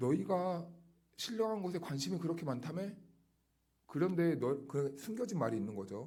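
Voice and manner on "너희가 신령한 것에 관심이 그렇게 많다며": slightly sarcastic, high-pitched, fast. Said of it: "약간 비꼬아서 말하는 거예요".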